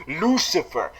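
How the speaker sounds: low, soft, composed address; briefly reined-in fanboy; attempted professional. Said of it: "I should be more professional".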